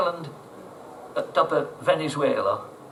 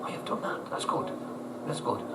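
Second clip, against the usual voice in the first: whispered relief; 11 dB quieter than usual. Retold or imitated. Drunk owner relieved after fix.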